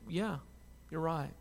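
calm. Retold or imitated. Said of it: "just calmly asking".

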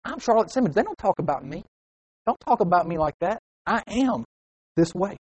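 acted indignant huff; mildly worked-up self-defence; fired up. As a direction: object as if gossiped about. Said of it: "You get fired up because".

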